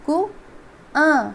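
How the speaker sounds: कुआं drawn out very slowly, nasal vowel held; कुआं, very slow, nasalised; slow nasal demo. Shown as a demonstration. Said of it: "हम लोग बोलेंगे कुआं".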